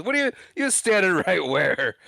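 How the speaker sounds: bewildered, as if he misheard; dumbfounded Pa. Retold or imitated. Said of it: "Pa's dumbfounded by this".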